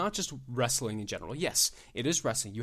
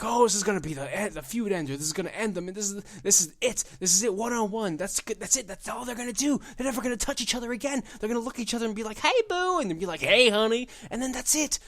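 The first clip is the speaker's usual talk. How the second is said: mocking quote; 8 semitones higher, 3 dB louder, faster than usual. Mocking the bookers' hype.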